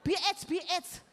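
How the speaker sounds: high, excited mock chant; pupils chiming in. Other pupils join in with rude answers, excited chiming in. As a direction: imitate rowdy pupils calling out. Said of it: "Langsung yang lain nyaut".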